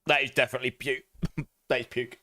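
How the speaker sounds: talking around a foul bean; laughing disgust with mouth full. Real, not acted. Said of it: "I can't chew on it".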